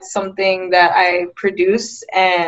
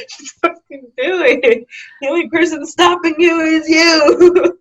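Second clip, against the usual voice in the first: booming motivational speech; 10 semitones higher, 4 dB louder than usual. Pretend. Older self's advice, laughing.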